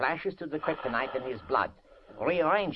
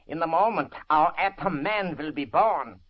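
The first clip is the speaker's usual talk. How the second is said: triumphant proclamation; 6 dB louder than usual. Acted. Scientist proclaims his creation.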